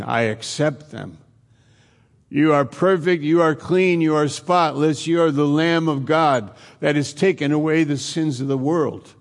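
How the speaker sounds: voice of God the Father. Acted. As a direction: lift the voice a little, declaring them clean. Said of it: "God the Father saying".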